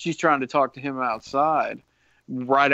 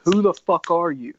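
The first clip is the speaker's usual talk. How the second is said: a lightly raised, higher yell; light mock yell; 5 semitones higher, 4 dB louder than usual. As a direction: half-shout it at him. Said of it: "yells at the Trickster".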